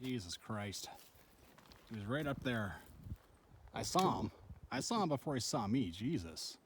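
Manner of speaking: real quiet shaken voice. Real, not acted. Shaken after bear encounter.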